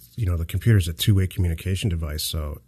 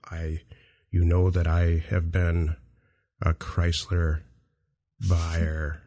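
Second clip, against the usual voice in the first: slow, halting, low-key dad; dad impression; 3 semitones lower, 4 dB quieter, much slower than usual. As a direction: drag it out like a lecturing father, long pauses. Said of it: "here's my impression of my dad".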